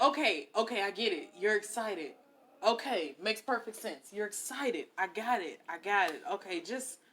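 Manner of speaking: low, softened reassurance; placating. Retold or imitated. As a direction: talk down someone over-excited. Calming an over-excited partner.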